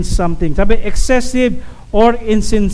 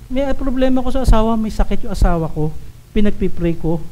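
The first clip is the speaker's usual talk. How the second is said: softer, falling prayer request; subdued confiding; 4 dB quieter than usual. Acted. Troubled spouse asking for prayer, subdued and plain. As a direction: share a trouble softly.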